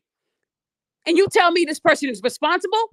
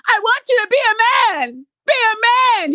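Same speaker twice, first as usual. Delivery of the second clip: mock act; 5 semitones higher than usual. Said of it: "that little act she put on".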